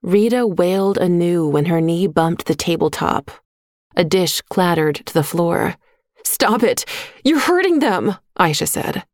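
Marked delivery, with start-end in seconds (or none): 6.2-8.2 high, pleading cry to stop; desperate protest. A narrator's reading. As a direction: beg him to stop, pitched high. Aisha protests twins being hurt.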